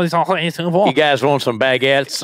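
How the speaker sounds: put-on slow hammy French accent; a cartoon Frenchman offering bread. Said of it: "That was my French accent".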